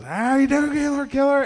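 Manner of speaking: high shouted street greeting; mock scream. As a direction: holler it at passers-by.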